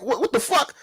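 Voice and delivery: high, stunned disbelief; a high-pitched "what" at the absurdity; incredulous what the fuck. Retold or imitated. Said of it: "And I'm like".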